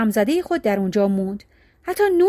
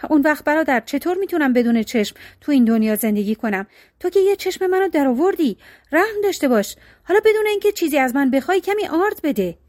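pleading; 3 semitones higher than usual. Acted. Poor brother begging his rich brother for flour, pleading. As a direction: beg your brother, voice rising.

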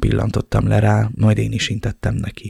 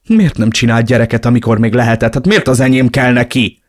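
outraged; 3 semitones higher, 5 dB louder than usual. Acted. Outraged father.

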